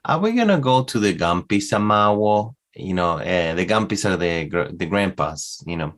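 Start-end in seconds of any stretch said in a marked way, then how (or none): 0.1-2.5 imitated child's question. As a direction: lightly mimic a toddler's question, "Amawo" sounded out. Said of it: "she was saying something like".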